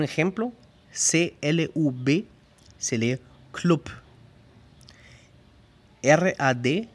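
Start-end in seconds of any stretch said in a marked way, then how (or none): 3.5-3.8 "club" ending in a hard p; hardened final B. Shown as a demonstration. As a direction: say "club" like "klup". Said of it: "la B se pronuncia P". («club» con la b final endurecida en p)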